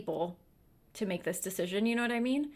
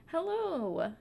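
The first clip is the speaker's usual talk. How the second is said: cat greeting; 8 semitones higher than usual. Real, not acted.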